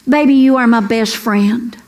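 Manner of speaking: a man gently telling his wife she's his best friend; husband's tender line. Retold or imitated. Husband lovingly holding wife's hand, low tender voice.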